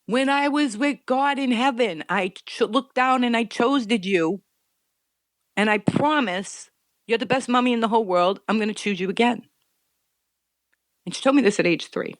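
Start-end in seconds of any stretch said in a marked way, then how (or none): 0.0-9.5 put-on child's voice. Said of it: "She goes".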